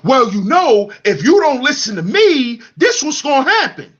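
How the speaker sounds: mocking a man threatening his girl; mocking petty man. Mimicking men's threats to women.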